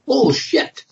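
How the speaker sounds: sudden high-pitched blurt. Retold or imitated. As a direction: let it slip out before you can stop it. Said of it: "I just blurted".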